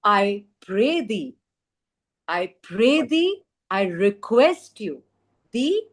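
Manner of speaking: polite request. Acted. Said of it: "very politely, Abu says".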